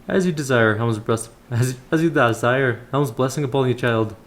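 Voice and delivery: put-on voice of a temple elder; measured, formal elder's counsel; kindly elder priest. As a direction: instruct the young adventurer as a solemn old brother. Voices Brother Paul's blessing.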